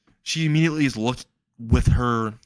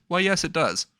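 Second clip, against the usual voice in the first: smug captor; 7 semitones higher than usual. Acted. Captor's teasing reply, put-on voice.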